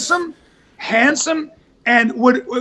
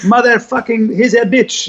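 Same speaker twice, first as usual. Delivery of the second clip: broken English swearing. Retold or imitated. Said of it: "somebody doesn't speak English, but he gets the swear words wrong".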